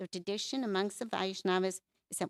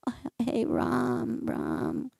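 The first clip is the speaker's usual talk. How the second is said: mild crying call; 4 semitones higher, slower than usual. Retold or imitated. Shiva weeping for Krishna, a gentle mock-crying call. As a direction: imitate the weeping Shiva calling out, voice dropping away. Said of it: "crying and crying and crying".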